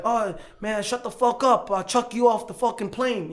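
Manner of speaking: half-voiced imitation of an angry shouter; mock screaming. Husband threatening another passenger, mock screaming. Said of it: "You know, like, screaming".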